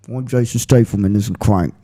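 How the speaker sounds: a lightly voiced mock English tough guy; low-key movie-star growl, only hinted; Statham in Crank. Friend does Statham's Crank voice for the hosts, light mock English accent. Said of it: "This is Jason Statham in Crank".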